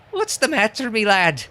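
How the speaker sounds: high-pitched, hammed-up Irish greeting; Irish sliding into Scottish; bad Irish accent. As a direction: do a shaky attempt at Irish. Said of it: "Irish top of the morning to you".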